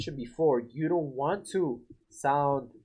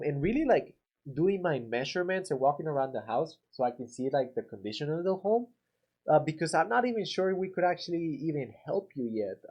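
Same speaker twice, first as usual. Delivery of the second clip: confused tone. Shown as a demonstration. Contractor to homeowner asking about price, mildly confused tone. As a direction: act a little unsure of the details. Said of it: "I'm acting, like, confused".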